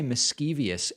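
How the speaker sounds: "mischievous" with an extra syllable, mis-CHEE-vee-us; variant pronunciation. Retold or imitated. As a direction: quote "mischievous" the alternative way, ending in -ee-us. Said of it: "I've heard people say mischievous".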